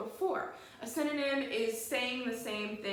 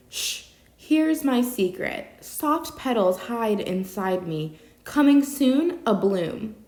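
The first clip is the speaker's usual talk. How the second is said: poem reading; 10 dB louder, slower than usual. Shown as a demonstration. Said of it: "and it reads".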